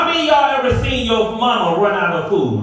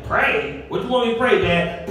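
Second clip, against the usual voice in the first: put-on puzzled teenage son; 3 dB quieter than usual. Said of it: "He's like".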